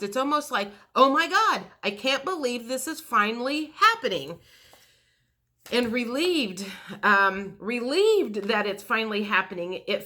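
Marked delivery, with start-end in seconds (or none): 0.9-4.4 acted surprise. Voicing the client's shock at good news, surprised and elated. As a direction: play it as sudden joy that it's finally real. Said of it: "people are surprised and you're surprised".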